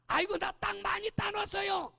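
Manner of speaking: high, put-on child's voice; child protesting. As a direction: whine that he has won lots of land. (엄마에게 땅 많이 땄다고 투정하는 아이)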